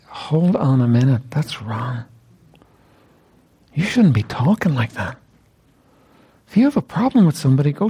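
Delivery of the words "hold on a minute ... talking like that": slow firm rebuke. Retold or imitated. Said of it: "Is it not love for you to say".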